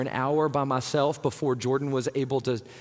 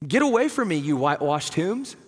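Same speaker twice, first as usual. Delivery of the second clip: mock rebuke. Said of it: "Some kind of crazy language there".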